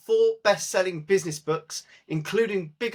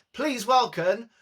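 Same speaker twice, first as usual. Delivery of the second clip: slow, high West Country pirate drawl; hammed-up West Country announcer; West Country accent; 10 semitones higher, slower than usual. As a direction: welcome him like a Somerset pirate. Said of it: "in your finest West Country accent".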